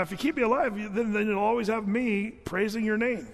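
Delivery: lightly hammed-up persuasive appeal; acted bargaining. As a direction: bargain for your life, half playfully. David bargaining with God, acted.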